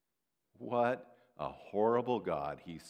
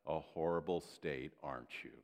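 sarcastic; 6 semitones lower than usual. Real, not acted. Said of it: "Sarcasm implied".

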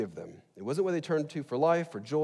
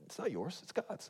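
softer, higher imitation of a little kid; lightly voiced kid correcting a parent; child's rebuke; 6 semitones higher, 8 dB quieter than usual. Kid rebuking dad over a cup, small high voice. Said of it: "they would rebuke me".

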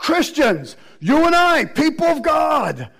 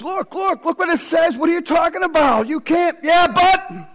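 higher, pressing "look, look" appeal; pleading urgently; 5 semitones higher than usual. Retold or imitated. Preacher showing how he pleads with folks, urgent and higher. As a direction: urge them to see it, a touch exasperated. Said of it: "you can go like this to folks".

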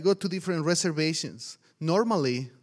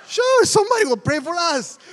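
loud, very high-pitched cheer; eager mock agreement; 14 semitones higher, 9 dB louder than usual. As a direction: pipe up cluelessly, far higher and louder. Acting out naive eager agreement.

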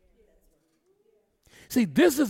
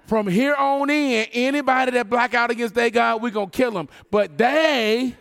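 mock royal decree in a preacher's voice; lightly acted king; 5 semitones higher, 5 dB louder than usual. Preacher acting the king decreeing whose God to worship, lightly proclaimed. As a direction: proclaim it with insistent repeats. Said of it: "That's what the king says".

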